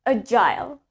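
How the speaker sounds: "agile" said A-jile, rhyming with "mile"; British "agile" with a clear eye sound; low, teacherly "agile" ending like "aisle"; British pronunciation. Shown as a demonstration. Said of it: "we pronounce it as agile".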